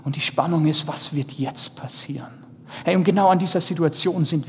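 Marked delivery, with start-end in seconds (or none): 0.9-2.4 hushed whisper, stress on wird; storyteller building suspense in a whisper. Acted. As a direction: whisper it like a cliffhanger. Suspense question of the film.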